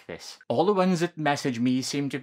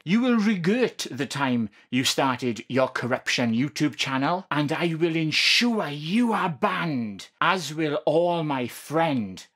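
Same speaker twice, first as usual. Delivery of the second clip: preacher voice; slower than usual. Acted. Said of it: "I'm doing my best preacher voice here".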